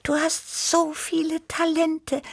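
high, marvelling little cat voice; amazed Tibi. A narrator's reading. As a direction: gush with wonder like a young cat. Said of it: "staunte Tibi".

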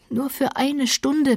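drawn-out earnest plea; earnest pleading. Acted. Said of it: "bat er inständig".

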